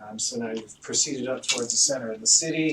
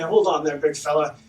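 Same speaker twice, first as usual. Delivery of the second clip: louder, higher soothing cleric voice; cleric calming the warrior; 4 semitones higher, 8 dB louder than usual. Acted. Brieger stopping his angry companion, raised soothing voice. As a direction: hold back the big fella. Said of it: "Brieger puts his hand".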